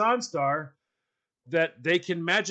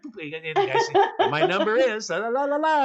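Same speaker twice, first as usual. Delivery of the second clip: imitating a clueless woman; 7 semitones higher than usual. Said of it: "proceeds to feel sorry".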